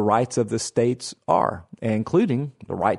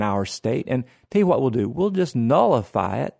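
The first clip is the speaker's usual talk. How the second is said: put-on Southern accent. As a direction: ease into a Southern accent, casual and folksy. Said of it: "why is your Southern accent getting deeper".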